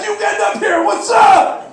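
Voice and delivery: high, excited shout; rowdy, high-pitched team yell; players yelling. Acted. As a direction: holler like a hyped-up athlete running over. Players yelling as they charge.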